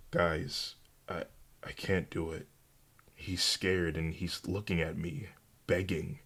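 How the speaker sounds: soft, hesitant admission; understated, subdued plea to friends; reluctant confession. A narrator's reading. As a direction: falter softly, unable to go through with it. Cannot bring herself to kill.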